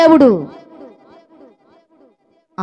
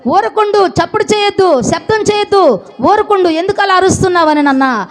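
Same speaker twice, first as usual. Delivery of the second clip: raised, scolding hush from the crowd; 3 semitones higher than usual. Retold or imitated. Crowd scolds the blind beggar, a raised scolding hush. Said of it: "వీళ్ళు ఆటంకపరిచారు".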